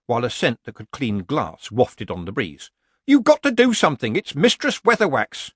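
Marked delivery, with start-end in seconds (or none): 3.0-5.5 higher, louder villager voice playing innocent; nervous villager. A narrator's reading. Villager pretending innocence to Nanny Ogg. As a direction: feign surprise like a bad amateur actor.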